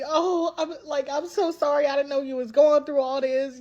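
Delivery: high, cooing mock condolence; acted-out consoling family; imitated sympathy. Imitating sympathetic family hugging her.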